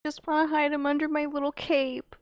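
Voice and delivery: high doting coo. Acted. Player wants to hide the kenku, doting.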